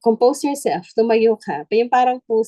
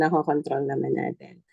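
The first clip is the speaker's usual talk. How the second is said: "nakokontrol naman natin" lower, softer and falling; soft echo; 5 semitones lower, 5 dB quieter than usual. Shown as a demonstration. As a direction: repeat "nakokontrol" quietly to yourself. (mahina at pababang ulit ng "nakokontrol")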